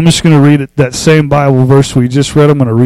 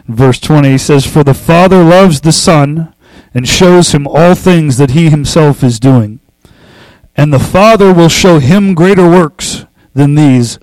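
scripture reading; 2 semitones higher than usual. Acted. Pastor reading John chapter five to the congregation, solemn. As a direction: proclaim the verses, lifting key words like a preacher.

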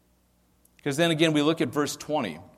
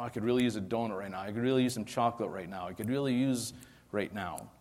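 quick, casual imitation of a snack craver; mock craving; 2 semitones lower, 3 dB quieter, faster than usual. Pastor imitating a churchgoer craving snacks, mock casual. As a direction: toss off the cravings lightly.

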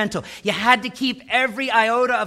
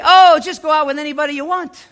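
carefree, careless parent, louder and higher at first; hammed-up lax parent brushing it off; mock permissive parent; 8 semitones higher, 6 dB louder than usual. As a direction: play the too-easygoing parent, breezy. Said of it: "would you say".

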